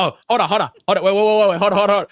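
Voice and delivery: loud, high, rapid hold on; real excited outburst, loud and high; excited interruption. Real, not acted. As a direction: stop everyone short in excitement.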